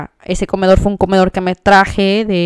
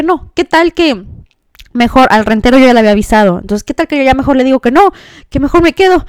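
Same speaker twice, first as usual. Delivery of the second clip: retold anxiety; 3 semitones higher than usual. Woman retelling her doubts about leaving the apartment, mildly anxious. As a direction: act out second thoughts piling up. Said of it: "Una ansiedad".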